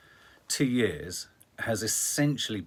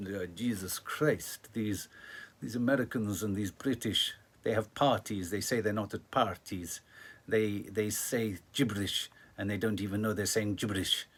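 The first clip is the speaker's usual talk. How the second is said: mock Putin; 2 semitones lower than usual. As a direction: sneer at the West in a hint of Putin. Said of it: "just going".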